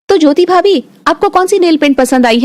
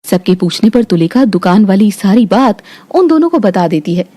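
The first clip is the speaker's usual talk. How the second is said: lower, even storytelling voice; story narration; 7 semitones lower than usual. A narrator's reading. Narrator telling the family story, calm and even. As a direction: narrate the scene calmly, a touch lower.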